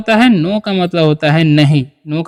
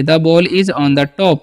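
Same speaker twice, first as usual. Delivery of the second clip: slow dictation; 3 semitones lower, much slower than usual. Shown as a demonstration. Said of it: "वो भी ध्यान से समझिए".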